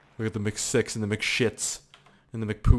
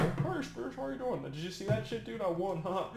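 squeaky bottle voice; 7 semitones higher, 9 dB quieter than usual. Pretend. Voices Powerade bottle character.

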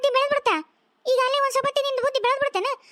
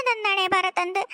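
mock crying lament; 3 semitones lower, slower than usual. Mother laments her fate.

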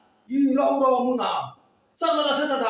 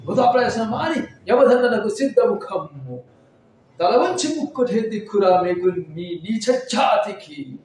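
Mohan Babu as Yama; 3 semitones higher than usual. Acted. Yama scorning a human who dared take his throne, booming rant. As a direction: thunder down on the puny human from the throne. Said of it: "నువ్వు మోహన్ బాబు చేస్తావా?".

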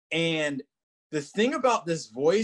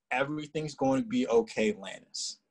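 soothing, loving voice; 3 semitones lower than usual. Retold or imitated. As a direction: lightly imitate a soothing, heavenly voice. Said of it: "This voice was so heavenly and soothing".

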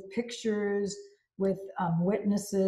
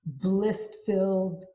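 building giddy excitement; 2 semitones higher, slower than usual. Shown as a demonstration. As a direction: work yourself up into giddy bliss. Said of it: "I work myself into an ecstatic, bliss-filled, giddy".

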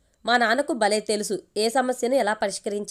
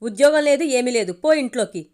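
an angry father's put-on yell; loud shout; 5 dB louder than usual. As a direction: bark the son back into the house. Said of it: "అని గట్టిగా అరిచాడు".

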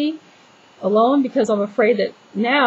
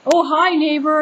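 higher-pitched, mock-friendly hello; mock neighborly greeting; 7 semitones higher than usual. Speaker imagining greeting a stranger on private property, mock neighborly. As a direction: put on an overfriendly neighbor's hello. Mimics chatty greeting she would never make.

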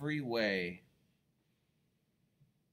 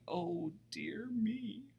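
high, slow then loud warning; a worried friend shouting a warning; alarmed cry; 12 semitones higher, 8 dB louder, slower than usual. Acted. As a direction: call up in alarm. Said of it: "good Trevor did cry".

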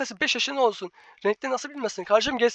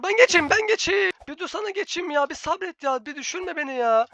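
higher urgent pleading; frustrated pleading; 5 semitones higher than usual. Real, not acted. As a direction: beg the teammate to let you pass. Frustrated co-op instructions.

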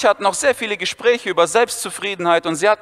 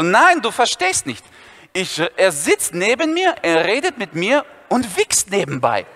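agitated Viktor; slower than usual. Retold or imitated. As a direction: drag out the punchline word. Viktor explaining to Dennis.

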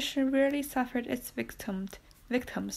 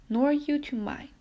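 higher, louder cry back; 5 semitones higher, 4 dB louder than usual. A narrator's reading. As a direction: fling it back at him. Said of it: "cried the abbe".

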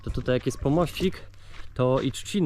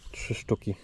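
whispered count; 3 semitones lower, 8 dB quieter than usual. Real, not acted. Counting finds under breath.

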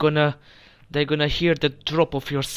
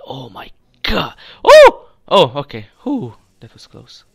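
fear to relief; 15 dB louder than usual. Real, not acted. Laser grid close call.

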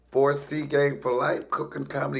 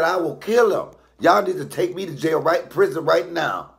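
loud, high threatening rant; retold tirade, loud and pitched up; acted furious mother; 7 semitones higher, 7 dB louder than usual. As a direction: shout it as an enraged mama. Acts furious mama threatening him.

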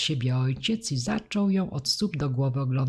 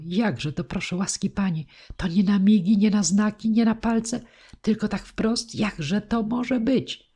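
high, loud, stretching out the final question; amazed disbelief; 6 semitones higher, 3 dB louder than usual. A narrator's reading. Gardener questioning the teacher about his speaking daughter, amazed disbelief. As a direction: pile up the questions in astonishment.

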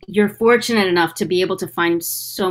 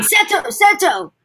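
Mokuba voice; 10 semitones higher, slower than usual. Retold or imitated.

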